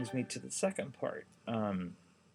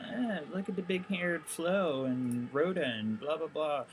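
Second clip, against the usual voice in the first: utter disdain; 6 semitones higher than usual. Retold or imitated. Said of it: "utter disdain".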